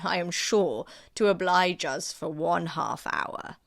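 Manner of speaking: lightly voiced courtly gentleman; coaxing Sir William. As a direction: coax her warmly into dancing.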